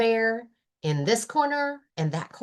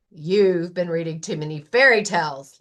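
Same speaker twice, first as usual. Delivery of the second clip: lightly voiced Lion; 3 semitones lower, 4 dB louder than usual. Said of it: "Lion tells Rabbit".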